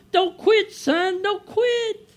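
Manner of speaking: high, gentle mom cheering her son on; mother's voice. Retold or imitated. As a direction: sound like his mother calling from heaven. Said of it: "I hear my mom".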